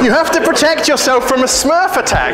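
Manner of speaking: can't get the words out for laughing; giggling at an absurd claim; laughing through it. Real, not acted. Laughing at a silly security claim.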